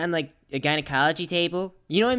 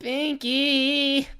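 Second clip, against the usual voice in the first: whiny call; 10 semitones higher than usual. Pretend. Laughing, still in whiny plea.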